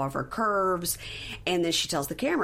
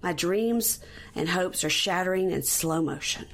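mocking retort. Recapper mock-scolds Chevelle for her dramatic wording. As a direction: tease her overwrought line. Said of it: "I'm like".

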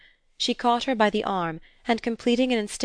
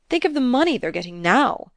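high, louder, lively exclamation; amused, laughing; 6 semitones higher, 5 dB louder than usual. A narrator's reading. Man jollying his angry partner along, amused. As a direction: say it with exuberant amusement. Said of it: "he laughed".

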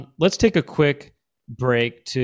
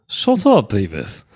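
mock scolding in an English accent; English cartoon slacker; English-accented Butt-Head; 3 semitones lower, 3 dB louder, slower than usual. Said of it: "Is English?".

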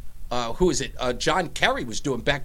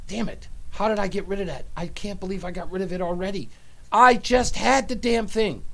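frustrated; 3 semitones higher than usual. Real, not acted. Cannot find the clip to play.

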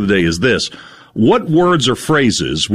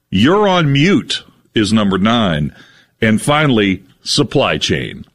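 slow, weighty reading of each phrase; deadpan list reading; slower than usual. Acted. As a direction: read each phrase like a solemn announcement. Reads banished words list.

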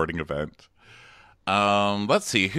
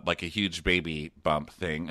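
normal talking voice

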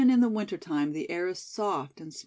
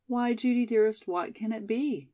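gentle; 2 semitones higher than usual. Acted. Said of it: "asked Molly gently".

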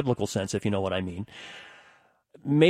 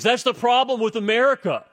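high-pitched mock outrage; irate buddy; 8 semitones higher, 3 dB louder than usual. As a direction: imitate a friend getting worked up in an argument. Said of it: "yelling and starting to, like, get real irate".

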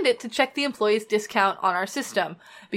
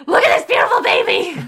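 higher and louder, laughing; over a cute puppy photo, laughing and gushing; gushing delight; 12 semitones higher, 5 dB louder than usual. Real, not acted. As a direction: coo over the puppy half-shouting.

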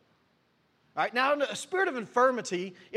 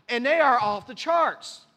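emphatic climax; 3 semitones higher, 5 dB louder, slower than usual. Real, not acted. Preaching climax.

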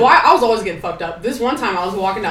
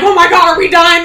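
mock panic; 9 semitones higher, 7 dB louder than usual. Woken girls in tent panicking.

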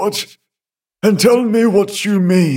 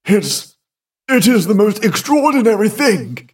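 exclaiming; 6 semitones higher than usual. A narrator's reading. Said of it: "he exclaimed".

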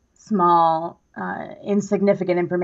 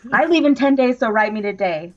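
shouting capitalized words; 3 semitones higher than usual. Shown as a demonstration. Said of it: "written in all caps, so I had to shout it".

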